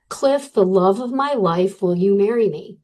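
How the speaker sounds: spelling out each word of the note. Retold or imitated. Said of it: "Read it a little slower and a little louder".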